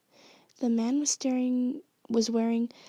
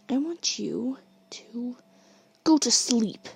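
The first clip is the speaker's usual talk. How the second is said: menacing scream; slower than usual. Acted. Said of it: "he screams".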